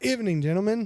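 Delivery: ordinary delivery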